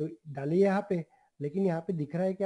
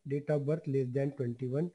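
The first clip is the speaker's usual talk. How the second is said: slow dictation; 3 semitones lower, much slower than usual. Shown as a demonstration. Repeating the rule for students.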